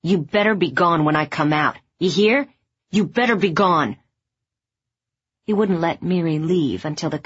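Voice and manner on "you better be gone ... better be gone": warning called across the street. Acted. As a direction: call it out firmly.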